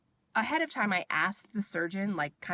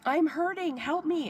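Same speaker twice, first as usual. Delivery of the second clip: high, louder pained protest, re-enacted; retold yelling; 9 semitones higher, 4 dB louder, slower than usual. Patient protesting to the dismissive nurse, retold yelling. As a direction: act out pleading loudly through pain. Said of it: "I was, like, yelling".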